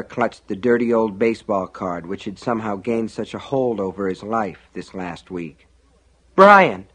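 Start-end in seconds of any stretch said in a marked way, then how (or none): 6.4-6.9 high, loud cry to a brother; frightened boy calling out; alarmed cry. A narrator's reading. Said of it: "Sean cried".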